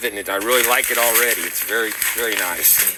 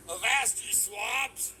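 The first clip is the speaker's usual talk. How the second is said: pirate voice; 9 semitones higher, 11 dB quieter, slower than usual. Acted. Pirate greeting in costume.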